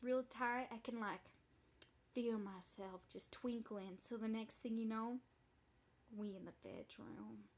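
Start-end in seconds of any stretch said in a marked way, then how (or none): 6.1-7.5 hushed, breathy whisper of a secret. Acted. Telling a friend the juicy part in a whisper. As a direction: let it slip out as a whisper.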